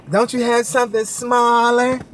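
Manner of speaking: imitating a cashier with an attitude; pointed, put-out question; snooty attitude. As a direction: act mildly affronted by the customer. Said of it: "like she had an attitude".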